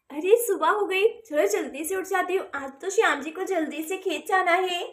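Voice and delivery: wife murmuring to herself at dawn; hushed morning voice. Acted. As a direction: keep it down at dawn. Radha wakes early, husband sleeping.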